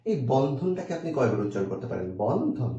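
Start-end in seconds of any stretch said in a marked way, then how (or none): 2.2-2.7 বন্ধন split into বন and ধন; two separate beats. Shown as a demonstration. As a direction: pause after বন in বন্ধন. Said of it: "আপনি দুইবার উচ্চারণ করছেন".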